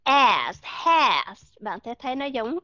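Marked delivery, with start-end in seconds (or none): 0.0-1.4 "As, has" with an open E-like vowel; teacher demoing "As, has"; model short A words. Shown as a demonstration. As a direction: say "As, has" clearly and separately.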